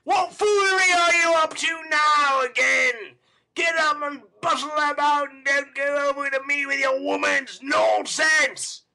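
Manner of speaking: loud, high furious yelling; a brute roaring at his girl; savage voice. Acted. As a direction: berate her at full force. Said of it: "with a savage voice".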